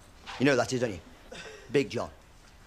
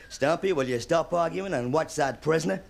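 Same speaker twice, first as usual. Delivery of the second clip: John Wayne. Retold or imitated. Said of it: "John Wayne talking to Walt Brennan".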